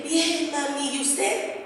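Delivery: softly answering a crying mother; hushed, tender reply; careful, soft voice to mamá; gentle daughter. Retold or imitated. Answers her weeping mother.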